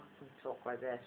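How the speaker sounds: soft, lightly put-on voice; voiced softly, as one of several voices; another voice. Shown as a demonstration. Showing viewers another voice, soft and lightly put on. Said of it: "I do lots of different voices".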